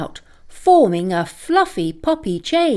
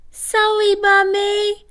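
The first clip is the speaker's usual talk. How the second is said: high small whimpered apology; whimpering puppy; 11 semitones higher than usual. A narrator's reading. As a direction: whimper it like a guilty tearful pup. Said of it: "whimpered Peanuts".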